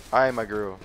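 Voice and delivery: mock girly line. Shown as a demonstration. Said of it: "Come on, repeat".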